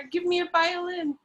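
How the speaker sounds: mild mock frenzy, barely pushed; frantic raving. Laura raves over dead Edward, a touch of frenzy. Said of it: "raving in a frantic, incoherent manner".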